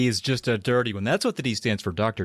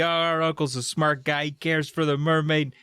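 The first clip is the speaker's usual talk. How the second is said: higher-pitched, lightly gushing; proud and excited; 5 semitones higher than usual. Acted. Niece and nephew about their uncle, lightly acted pride. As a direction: gush a little, pitched up. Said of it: "so excited. They're proud of Doctor D".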